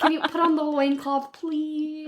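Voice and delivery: breathy come-hither voice, rising; mock seductive voice. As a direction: tease like a flirty lover. Sultry mock partner request.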